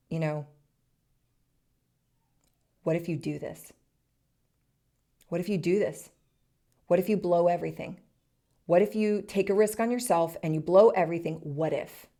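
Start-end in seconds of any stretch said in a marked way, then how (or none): 2.8-12.1 anxious worry building and quickening; demonstrated voice of fear, mounting; fearful what-if. Shown as a demonstration. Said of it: "it could come from fear".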